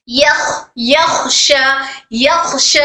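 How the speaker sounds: "यख" with breath flowing freely through the kh; airflow on kh. Shown as a demonstration. Teacher models a sakin kho for students, "यख" with airy kh. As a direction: let the air run on in the kh of "यख". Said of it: "खो में air flow होना है".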